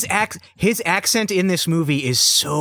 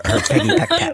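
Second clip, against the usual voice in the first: mock peck; 13 semitones higher than usual. Mocking Peggy's kiss.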